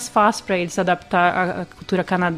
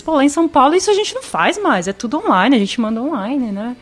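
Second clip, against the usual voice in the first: laughing retold thought; 3 semitones higher than usual. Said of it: "her old thinking retold".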